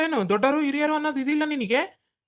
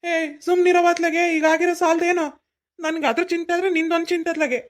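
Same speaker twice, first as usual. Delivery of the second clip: louder, sharp ಸುಮ್ನಿರೋ barked at his mother; angry shout; 3 semitones higher, 4 dB louder than usual. Acted. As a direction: shut her up hard. Son snaps at his mother.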